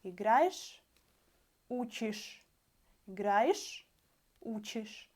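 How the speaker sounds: играешь and учишь with the same quick ish ending; Russian demo. Shown as a demonstration. Teacher showing students the endings sound alike. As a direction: contrast играешь and учишь slowly. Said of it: "Can you hear the difference in the endings".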